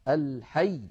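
الحي with the doubled ya pressed hard; stressed shadda. Shown as a demonstration. Teacher demonstrating الحي with a pressed doubled ya. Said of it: "بل نقول الحي".

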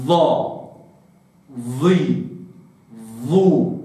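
ظا ظي ظو, each syllable with a heavy emphatic ẓā; ظا then ظي then ظو, one at a time; ظا ظي ظو with a full emphatic ẓā; ẓā with vowels. Shown as a demonstration. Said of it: "أتحرك".

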